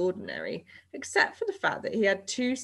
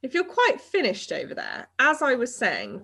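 higher, a little raised to regain attention; mildly raised, higher voice; voice slightly raised; 6 semitones higher, 4 dB louder than usual. A narrator's reading. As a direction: pointedly talk over the interruption. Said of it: "raising his voice a little now".

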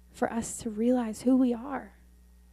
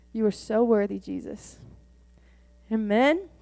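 prayer. Real, not acted. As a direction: pray over the harvest. Closing prayer.

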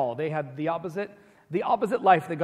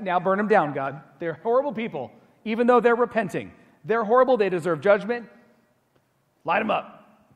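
loud, higher, raging demand to God; furious Jonah; 4 semitones higher, 6 dB louder than usual. Retold or imitated. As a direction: rant at God to torch the city. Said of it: "He was so mad".

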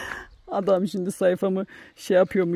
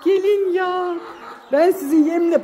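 higher, slow sing-song pet talk; fond high-pitched calls to her hens; cooing to chickens; 9 semitones higher, 5 dB louder, slower than usual. Real, not acted. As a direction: coo at the hens like they're babies. Calling chickens.

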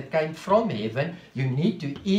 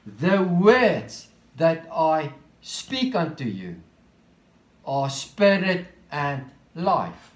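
slow reading; slower than usual. Shown as a demonstration. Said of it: "I'm going to read it slowly now".

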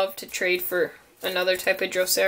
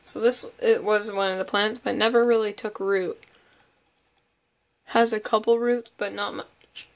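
talking through hiccups; hiccuping between words; suppressing hiccups. Real, not acted. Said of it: "Sorry, I have hiccups today".

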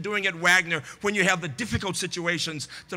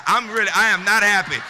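mock displeasure; 7 dB louder than usual. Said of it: "I'm looking mean".

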